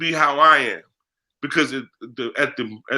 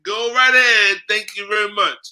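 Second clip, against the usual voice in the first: mock welcome; 5 semitones higher than usual. Mocking naive sage burner.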